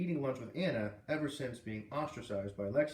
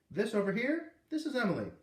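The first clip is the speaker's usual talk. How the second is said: put-on high, louder coaxing to a small child; high sing-song for a little boy; coaxing teacher voice; 9 semitones higher, 4 dB louder than usual. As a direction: gently urge a shy child to say hi. Teacher introduces girl.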